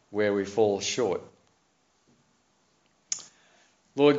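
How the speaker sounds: measured public prayer in deliberate phrases; slow, careful prayer. Real, not acted. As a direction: lead the congregation in prayer, pausing between phrases. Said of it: "pray it slowly and carefully".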